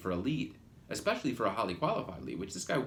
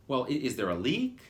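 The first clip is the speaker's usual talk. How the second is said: a touch of irritation, slightly louder; annoyed; 4 dB louder than usual. Retold or imitated. Mildly annoyed receptionist asking about a leak. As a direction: receptionist impatient with a caller's vague question. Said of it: "that was the inflection".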